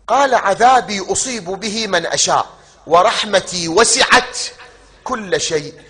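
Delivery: high, loud, slow declaimed verse; preaching at full force. Acted. Preacher declaims the verse of mercy to the congregation, loud and slow. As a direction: proclaim the verse with full power.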